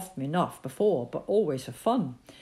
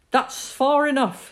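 louder, slow, sharp warning; a father shouting up a stern warning; 8 semitones higher, 7 dB louder, slower than usual. Acted. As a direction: stop him with a sharp shout. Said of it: "his father's shout was sharp".

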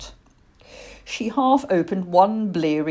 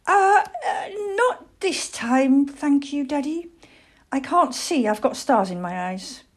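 high, halting little-owl voice; young owlet making his excuses, pitched up; timid young owl Plop, hesitant; 10 semitones higher than usual. Acted.

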